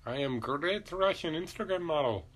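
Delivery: a hint of a hammy Asian accent; mock Asian accent. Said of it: "why I gave him an Asian accent".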